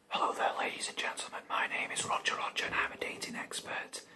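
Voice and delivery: whispered dating-show host; dating expert character. Acted. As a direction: introduce yourself in a whisper as the expert. Plays dating expert Roger Roger.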